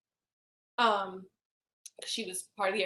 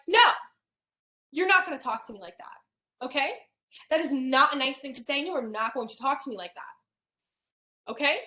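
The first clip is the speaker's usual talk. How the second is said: put-on firm, stern scolding of a child; 3 semitones higher, 4 dB louder than usual. Scolding her cousin for rude talk, stern and firm. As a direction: set the little girl straight, sternly. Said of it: "speaking to her daughter for the first time in a stern tone".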